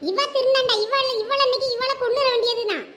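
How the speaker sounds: boiling over with anger; furious rage. Acted. Mother in rage threatens.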